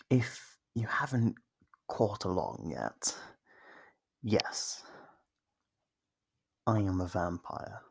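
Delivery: a hushed whispered confession; whispered reveal. Acted. Vampire whispers her true nature to the hunter. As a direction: let the secret out in a whisper.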